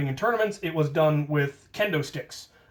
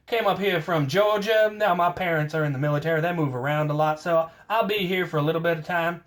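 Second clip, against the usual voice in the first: put-on southern accent. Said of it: "Put on a southern accent".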